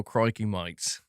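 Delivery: put-on slow Australian accent, "mates" said as "mites". Streamer pleased with finally landing it, Australian accent. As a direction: settle into a broad put-on Australian. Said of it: "There we go".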